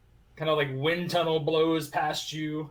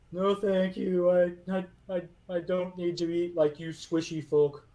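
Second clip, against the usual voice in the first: high, loud golem refusing food; a big stone guardian politely declining; 4 semitones higher, 4 dB louder than usual. Acted. Golem turning down the bread from the squishy folk, high and loud.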